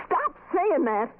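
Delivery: high, slow, desperate plea to stop; frightened outburst. Acted. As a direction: cut her off, scared and angry. Frightened friend snaps at Kay.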